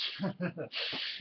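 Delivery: soft breathy laugh; quiet giggle. Real, not acted. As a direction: giggle to yourself. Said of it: "I'm just a little wired tonight".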